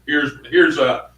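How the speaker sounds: DJ voice. Retold or imitated. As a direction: boom it out like a DJ. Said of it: "it was a D J voice type thing".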